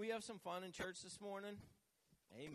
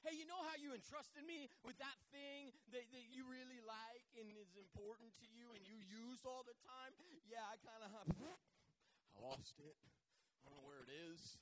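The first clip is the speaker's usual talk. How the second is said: hesitant, softer build-up to owning up; awkward confession; 3 semitones higher, 3 dB quieter than usual. Retold or imitated. Borrower confessing a lost item to its owner, awkwardly. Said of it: "It gets real awkward 'cause then you're like".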